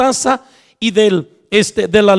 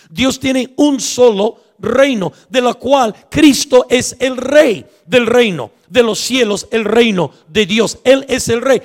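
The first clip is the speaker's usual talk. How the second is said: emphatic preaching; 3 semitones higher than usual. Acted.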